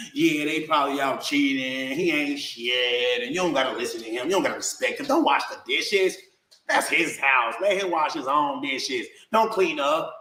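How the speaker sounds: lightly voiced mean mother egging her daughter on; mocking the ex. Mocking how the ex coached her daughter against him. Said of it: "she would be coaching her daughter".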